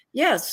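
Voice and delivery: weary disappointed sigh. Retold or imitated. Student who got back a D, weary sigh. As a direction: breathe out the letdown of a bad grade. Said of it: "they're gonna be sighing".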